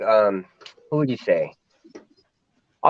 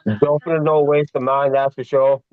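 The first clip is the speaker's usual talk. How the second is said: imitated Scouse accent. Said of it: "Come and listen to the accents".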